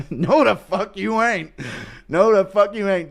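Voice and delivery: put-on cranky old voice, dragged out; old man denial. Dementia Chandler again denying the kid, slow put-on voice. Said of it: "Chandler with dementia".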